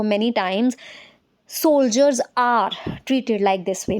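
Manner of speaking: very slow, each word spaced; slow classroom dictation. Shown as a demonstration. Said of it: "इस तरह से बोल सकते हो".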